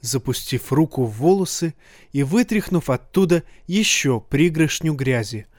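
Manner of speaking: ordinary delivery, nothing marked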